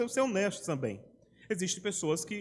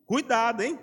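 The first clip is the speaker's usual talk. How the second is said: a sudden, louder warning; 3 semitones higher, 5 dB louder than usual. Shown as a demonstration. Preacher loudly warning his flock to be careful. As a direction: bark it out to the congregation.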